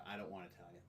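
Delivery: flat muttered no to pizza; sulky and very soft; low, quiet refusal. Retold or imitated. Acted picky partner.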